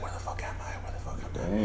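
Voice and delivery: hushed whisper, voicing a lost man; acted whisper, confused and very soft; whispered bewilderment. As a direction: whisper it as if feeling along dark walls. Man alone in dark room, retold.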